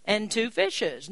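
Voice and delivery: slow, deliberate reading of the disciples' words; slow scripture reading. Retold or imitated. Preacher reading the disciples' reply to Jesus, slow and deliberate. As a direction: read it out slowly like scripture. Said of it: "they say unto him".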